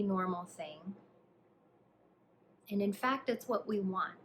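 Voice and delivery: calm, hushed instructions, leaving space to breathe; guided meditation. Acted. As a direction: guide the listener gently through a body scan, unhurried. Leads a body scan meditation.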